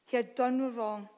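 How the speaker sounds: solemn, measured Bible reading with weighted phrases; deliberate reading, leaning on key words; scripture reading. Acted. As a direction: read the prophecy aloud to a congregation. Reads Isaiah aloud to congregation.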